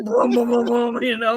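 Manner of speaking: booming wall noise, loud then easing; imitated reverberation. Storyteller mimicking the door wall uncle hit, imitated reverberation. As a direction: boom it out like a shaking wall.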